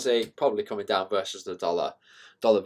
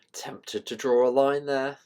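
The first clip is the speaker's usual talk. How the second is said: slow whisper to yourself; slow musing whisper; whispered aside; 4 semitones higher, slower than usual. Real, not acted. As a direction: think aloud under your breath. Aside while drawing on chart.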